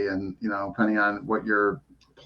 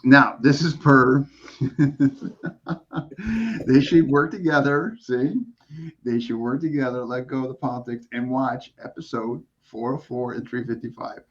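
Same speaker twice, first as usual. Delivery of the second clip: trying not to smile. Real, not acted. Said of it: "I can't even keep a straight face saying this stuff".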